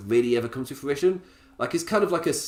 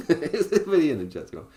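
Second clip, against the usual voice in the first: lingering posh voice; 4 semitones higher than usual. Retold or imitated. Keeps the posh voice, laughing.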